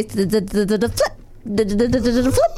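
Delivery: rapid clicking toy noise with a flip; chattering wind-up toy imitation; imitated wind-up toys. Host mimics a store full of toys, imitated clicking.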